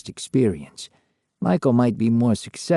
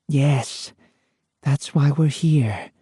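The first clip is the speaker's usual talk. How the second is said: slow, gentle reassurance; comforting; 3 semitones higher, much slower than usual. A narrator's reading. Lorraine reassuring a startled Michael, slow and gentle. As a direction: ease him along slowly. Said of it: "said in a comforting voice".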